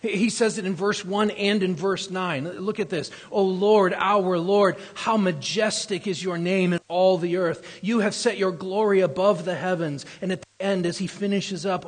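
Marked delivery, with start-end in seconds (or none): 3.3-10.1 preacher reading a psalm aloud; proclaiming scripture. Acted. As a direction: declare the psalm's opening with force.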